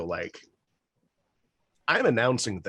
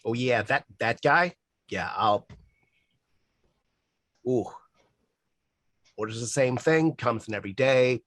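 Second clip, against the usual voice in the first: put-on Boston accent. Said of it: "worst fucking Boston accent I've ever done".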